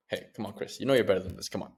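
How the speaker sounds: quiet encouraging pep talk; positive self-coaching. Shown as a demonstration. Man urging himself to do better, quietly encouraging. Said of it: "That's the positive response spiral".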